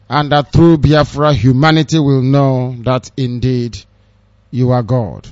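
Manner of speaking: solemn spoken prayer, steady. Acted. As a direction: intone it like a prayer. Prayer to Chukwu Abiyama.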